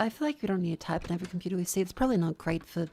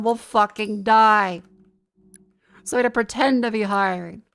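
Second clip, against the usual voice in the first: loud mocking corporate spiel; sarcastic rant; 6 dB louder than usual. Real, not acted. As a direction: rant loudly with heavy sarcasm.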